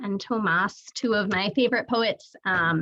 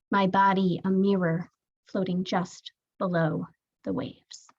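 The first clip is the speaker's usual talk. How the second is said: poetry reading. Acted. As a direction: read it as a poem, pausing after each line. Reads own poem aloud.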